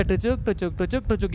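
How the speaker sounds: soft, low-key ticking steps; tchuk-tchuk hopping noise. Shown as a demonstration. Teacher counting steps to the left, soft tchuk noises. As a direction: quietly click out each little hop.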